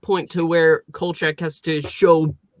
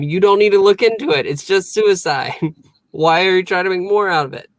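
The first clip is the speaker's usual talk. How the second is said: fast, higher, dismissive voice; mocking Vincenzo; 6 semitones higher, 4 dB louder than usual. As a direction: brush it off, quick and pushy. Retold scolding quote of Vincenzo.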